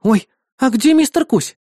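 worried. Acted. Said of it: "взволнованно вертя головой".

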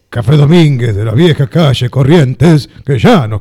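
put-on slow, low, old-time radio recitation; lightly drawn-out vintage Porteño delivery; old-fashioned tango diction. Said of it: "es antiguo".

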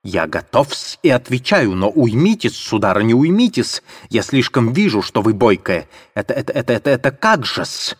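mildly flustered mumble; muttering Luzhin. Acted. Luzhin backing off from Katerina, lightly flustered mutter. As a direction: fumble for words, halting. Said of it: "бормотал Лужин".

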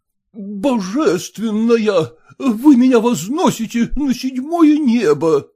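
put-on overjoyed old suitor gushing; exclaiming. Accepted suitor exclaims in delight to Sonyasha. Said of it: "воскликнул Ерехонский".

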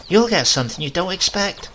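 a sharp grandmotherly warning. A narrator's reading. Grandmother warning the boy and grandfather, sharp warning. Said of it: "my grandmother warned us".

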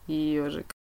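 quiet laugh. A narrator's reading. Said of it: "тихо засмеялся король".

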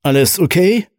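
worried. A narrator's reading. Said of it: "fragte sein Co-Pilot mit besorgtem Blick".

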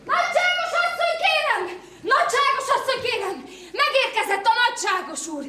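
calling out. Acted. Servant announcing the master to the lady, calling out. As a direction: announce the master's arrival across the house. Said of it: "Miért kell ezért úgy üvölteni".

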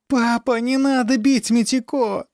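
put-on high tearful child's plea; a small girl begging her father through tears; crying little girl. Younger sister cries out to her father, high and tearful. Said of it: "заплакала Йосико".

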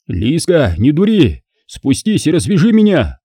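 tied-up man mildly yelling up at his lover; suddenly yelling. Acted. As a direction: call up at her, lightly hammed-up. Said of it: "вдруг завопил Кир".

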